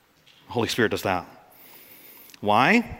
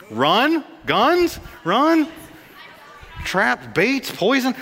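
excited shouting; 9 semitones higher, 3 dB louder, much slower than usual. Pretend. Pastor shouting out audience answers.

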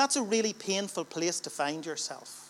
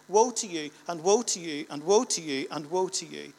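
loud thundering woe, each line rising to a shout; prophetic woe; 4 dB louder than usual. Acted. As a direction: hammer every woe like a prophet. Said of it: "All of his points begin with, "Woe".

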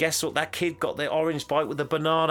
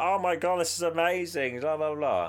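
high-pitched imitated gushing; mock amazed; 6 semitones higher than usual. She sees the Eiffel Tower, mock-amazed gushing. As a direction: gush in a raised pitch, then toss it away. She marvels on reaching Paris.

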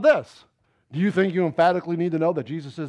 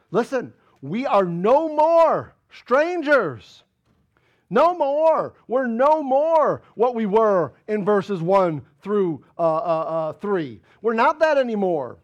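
insistent, stretched-out sermon delivery; emphatic preaching; 5 semitones higher, 7 dB louder than usual. Real, not acted. Preacher telling believers they are no more strangers, emphatic preaching. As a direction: hammer the key phrases home.

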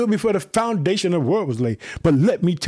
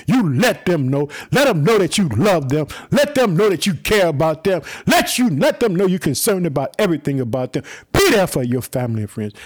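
louder, driving each let them know home; rising preacher shout; 3 dB louder than usual. Real, not acted. Preacher exhorting his podcast family, loud and driving. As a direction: preach it hard to the listeners, building.

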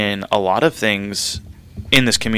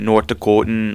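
North Dakotan accent with rounded, German-esque vowels; mock North Dakotan, German-esque accent. Shown as a demonstration. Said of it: "like, thick German-esque accent".

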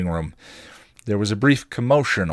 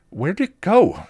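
higher, louder urgent demand; 11 semitones higher, 5 dB louder, slower than usual. A narrator's reading. Buffy demanding of Spike where the demon went. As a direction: demand an answer fast. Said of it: "she demanded".

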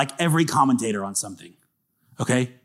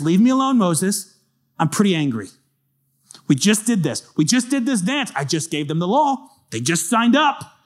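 higher, pushed exasperated God voice; 5 semitones higher than usual. Acted. God telling Moses he's fed up, higher. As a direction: vent like a fed-up parent. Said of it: "And he goes".

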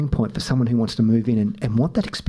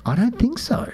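high-pitched retold protest; mock disagreement; 13 semitones higher than usual. Husband retelling his answer to his wife, high-pitched disagreement. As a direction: push back in a much higher voice.

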